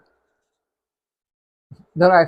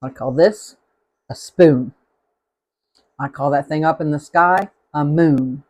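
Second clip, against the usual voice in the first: "spoon" and "moon" said the way she was told sounds Southern; slow, loud lightly Southern "a spoon"; Southern-sounding speech; 3 dB louder, slower than usual. Shown as a demonstration. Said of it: "they said that sounds Southern to them".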